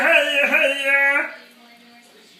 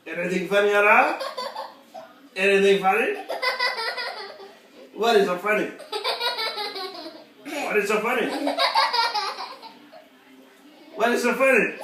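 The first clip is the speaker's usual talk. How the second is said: laughing; 4 dB quieter than usual. Real, not acted. Asking while laughing, laugh heard.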